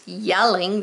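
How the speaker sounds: "Yelling" with the J sounded as Y; pronounced with a Y. Shown as a demonstration. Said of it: "this is pronounced yelling".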